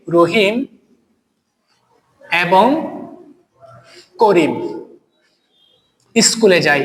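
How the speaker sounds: each word set apart by long pauses, like dictation; slow dictated example. Shown as a demonstration. Teacher dictating an example sentence to students, words spaced slowly. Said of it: "আমি যদি বলি".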